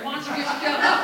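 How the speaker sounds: loud mock-annoyed retort; acted quarrel. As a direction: snap it in a family argument. Acted quarrel, first take before escalation.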